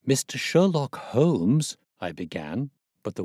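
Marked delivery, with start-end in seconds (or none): 0.1-1.8 loud, slow calling of the name. A narrator's reading. Watson calls Holmes's name up to the old man, loud and slow. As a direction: call the name up to the window.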